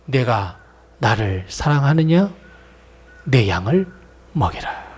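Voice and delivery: low, slow, gentle; tender encouraging Jesus. Acted. Jesus restoring Peter, low, slow and tender. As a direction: coax Peter back tenderly. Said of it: "이게 격려 아닐까요".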